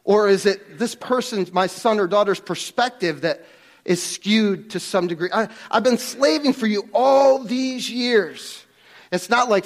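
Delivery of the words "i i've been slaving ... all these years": slower, higher mock complaint of a resentful son; whining older son. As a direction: drag it out like a sulking son who feels used. Mocking the older son's complaint.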